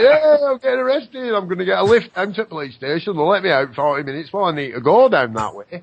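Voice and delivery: mock laughing arrestee. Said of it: "He's like".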